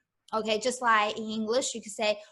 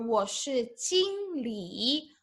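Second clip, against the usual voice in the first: slow model phrase; 4 dB quieter, slower than usual. Shown as a demonstration. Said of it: "teacher models the phrase slowly".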